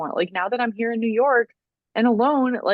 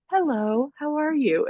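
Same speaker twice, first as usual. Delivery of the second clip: sweet Siri voice; 6 semitones higher, slower than usual. Retold or imitated. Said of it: "she's like".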